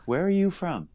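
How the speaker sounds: tossing the question back at him; high mock question. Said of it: "I was just like".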